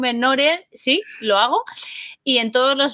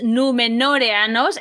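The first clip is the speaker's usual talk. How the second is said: palabra alargada; slower than usual. Shown as a demonstration. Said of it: "además es larga".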